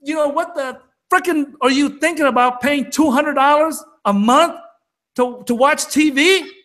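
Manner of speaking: incredulous retold rant. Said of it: "I grabbed him and I go".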